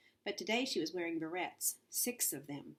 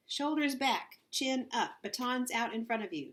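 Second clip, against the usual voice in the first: drill orders; 6 semitones higher than usual. A narrator's reading. Coach barking drill orders.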